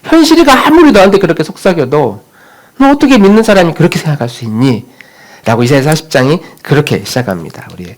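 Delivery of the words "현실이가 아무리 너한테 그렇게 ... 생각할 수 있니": higher, pleading call to Jacob; preacher calling out Jacob's name, higher. Acted. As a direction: cry out to Jacob as God's voice. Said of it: "우리의 마음을 향해 이렇게 외치는 거예요".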